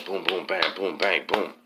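rhythmic spoken booms and bangs; imitated fight thuds. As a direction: voice the thuds of a fight in quick beats.

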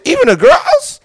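high squeaky laugh through the question; amused, incredulous repeat; laughing disbelief. Retold or imitated. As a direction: crack up in disbelief. Repeating his reaction, laughing.

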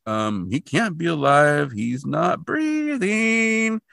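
slow, rising, puzzled objection; doubtful Pendrell. Retold or imitated. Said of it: "And Pendrell's like".

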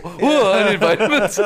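high whiny laughing plea for vitamins; laughing, imitating a needy voice; mock needy plea. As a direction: whine it like you're desperate. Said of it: "You had a real mo".

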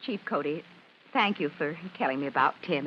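low, subdued, holding back tears; upset mother keeping her composure; close to tears. Acted. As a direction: thank him quietly while hurt. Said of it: "You made Mom cry".

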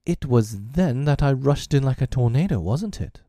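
a touch of self-mockery; self-scorning. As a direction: scorn yourself as you recall it. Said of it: "scorning himself".

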